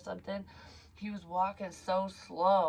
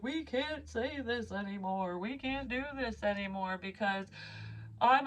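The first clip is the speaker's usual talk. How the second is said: mock offended protester; 5 semitones higher than usual. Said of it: "get out your fucking signs and be like".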